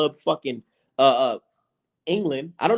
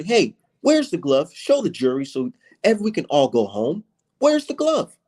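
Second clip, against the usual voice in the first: mock demand. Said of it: "If I asked, sat there and asked".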